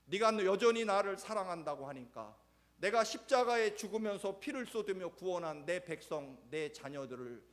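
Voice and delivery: high, loud, fervent charge; Jesus charging Peter; solemn commission. Acted. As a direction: proclaim the mission with power. Jesus entrusting his mission.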